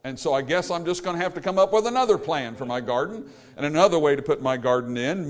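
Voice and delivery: a hint of a sensible, shrugging Ahab; calm manly Ahab. Preacher voicing how Ahab should have reacted, lightly cheerful. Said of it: "What Ahab should have said was".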